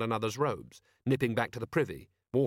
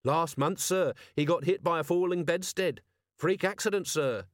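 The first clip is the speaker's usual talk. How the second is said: higher, keen and matter-of-fact; earnest young Carrot; 7 semitones higher than usual. A narrator's reading. Carrot tells Vimes the news, dutiful and pitched up. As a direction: report it dutifully to the boss.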